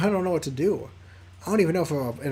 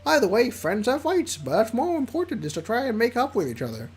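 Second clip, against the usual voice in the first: higher, squeaky friend; squeaky Liam voice; 5 semitones higher than usual. Acted. Squeaky Liam offering help on the phone. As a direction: squeak it out, quick and breezy. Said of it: "the squeaky voice I do for Liam".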